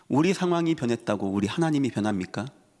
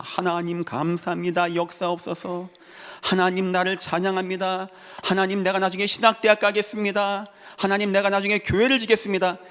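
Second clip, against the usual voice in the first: higher-pitched, evenly chanted vows; mock grateful believer; 7 semitones higher than usual. Preacher imitating a blessed believer promising God great things, mock fervent. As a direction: lightly imitate an eager praying believer.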